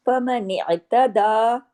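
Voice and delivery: फमन इअ्तदा slow with a clear catch at the ع; recited word. Shown as a demonstration. Teacher demonstrating the letter to students, slow. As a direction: give the ع of इअ्तदा a clear stop, slowly. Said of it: "आइन को जमाओ के साथ".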